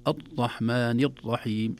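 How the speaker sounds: slow "الرحمن الرحيم" with each ر clamped hard, no trill; over-tightened R. Shown as a demonstration. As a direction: press stiffly on the ر in "الرحمن الرحيم". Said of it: "يشد عليه".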